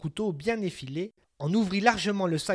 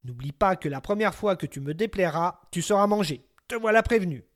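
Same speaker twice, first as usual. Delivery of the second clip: threatening giant; 2 semitones higher, 4 dB louder than usual. Acted. Giant warns new servant.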